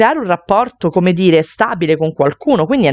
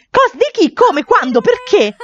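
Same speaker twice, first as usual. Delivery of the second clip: higher, rapid-fire shocked questions; 11 semitones higher than usual. Acted. Sister reacts to Deidre's pregnancy news, higher and shocked.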